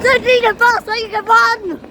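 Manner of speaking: breathless while running; out of breath. Real, not acted. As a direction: puff the words out mid-jog. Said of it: "I'm out of breath".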